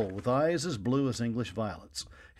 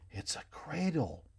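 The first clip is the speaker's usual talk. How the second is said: whispered; 5 semitones higher, 7 dB quieter, slower than usual. A narrator's reading. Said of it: "Love whispered".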